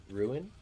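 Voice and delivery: "ruin" said as two syllables, roo-in, rising. Shown as a demonstration. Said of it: "anyone that pronounces ruin".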